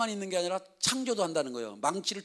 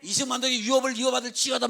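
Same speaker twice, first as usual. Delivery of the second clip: high, loud declaring like a pulpit decree; booming prophetic declaration; preached proclamation; 7 semitones higher, 9 dB louder than usual. Shown as a demonstration. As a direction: proclaim it over the nation at full force. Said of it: "막 그러면서 하는 거죠".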